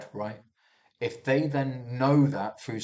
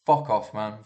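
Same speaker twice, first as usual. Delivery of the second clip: raised voice; 2 semitones lower, 4 dB louder than usual. Retold or imitated. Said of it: "raise your voice back to them and you go".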